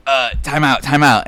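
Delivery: mild imitation of a meek plea. Punched kid asking the storyteller to stop, meek.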